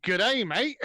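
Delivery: mock-Aussie greeting, put on thick; thick Australian accent. Imagined Godfather remake with Italian Americans, thick Australian accent. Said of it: "really thick Australian accent".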